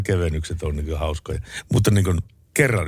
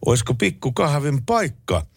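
reading out a text message; 2 semitones higher, slower than usual. Shown as a demonstration. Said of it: "tekstiviesti menee näin".

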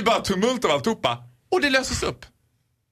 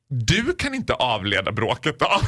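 operator; 5 semitones lower, slower than usual. Retold or imitated. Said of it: "säger hon till mig".

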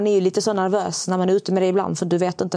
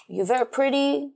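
slow, slightly higher mock American charm; flirty compliment; 5 semitones higher, slower than usual. The American guy complimenting her, slow mock charm. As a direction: lay it on like a smooth flirt. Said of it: "Han bara".

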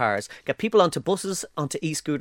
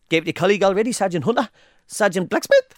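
put-on Geordie accent; 3 semitones higher than usual. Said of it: "I kept going like".

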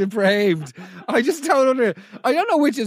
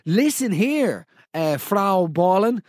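mock threat; slower than usual. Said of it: "I would have said".

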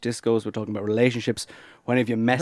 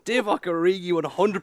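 starstruck gushing; 9 semitones higher than usual. Real, not acted. Gushing over his football hero.

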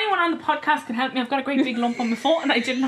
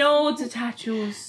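put-on Longford accent; much slower than usual. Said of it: "is that how you think Longford people sound".

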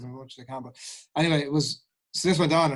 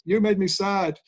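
put-on sulky child; 6 semitones higher, 4 dB louder, slower than usual. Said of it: "getting into the rings with it".

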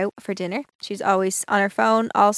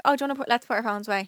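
quick, sweet cute request; cutesy baby voice; 2 semitones higher, 3 dB quieter, faster than usual. Shown as a demonstration. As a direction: say it cute and fast. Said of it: "Just say it in a cute way".

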